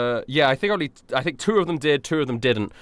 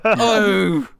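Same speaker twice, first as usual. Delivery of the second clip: high, slow pained death speech; dying goon; 7 semitones higher, 5 dB louder, much slower than usual. Acted. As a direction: drag out agonized last words loudly. Dying goon's last confession.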